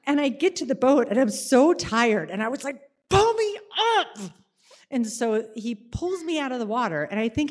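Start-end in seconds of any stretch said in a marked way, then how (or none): 3.1-4.2 very high, urgent call; urgent plea. Retold or imitated. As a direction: beg dad to haul her out. Exhausted at the boat.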